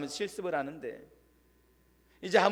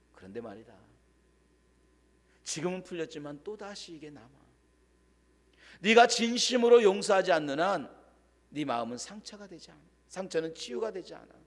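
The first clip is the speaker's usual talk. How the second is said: gentle counsel; 2 semitones lower than usual. Retold or imitated. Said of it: "조용히 다가가서".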